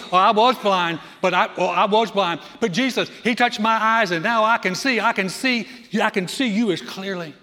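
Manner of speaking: loud, high and bursting with joy; thrilled healed man shouting his news; excited testimony. Retold or imitated. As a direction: tell it like you can't hold it in.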